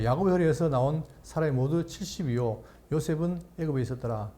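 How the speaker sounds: measured, solemn Bible reading; scripture reading. Acted. Pastor reading Numbers to the congregation, solemn reading.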